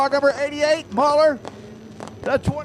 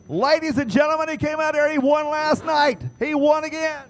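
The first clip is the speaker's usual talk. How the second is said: booming pumped announcer; 3 semitones higher than usual. Acted. Announcer introducing the winner.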